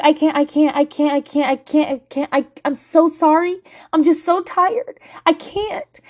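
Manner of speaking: tearful panic. Retold or imitated. Mom fleeing the restaurant, tearfully repeating I can't. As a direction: plead you can't cope, breaking. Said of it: "I was just like".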